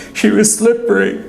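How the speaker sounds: high, voiced-up tearful little girl; sobbing child. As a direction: speak as a crying little girl. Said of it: "she sobbed".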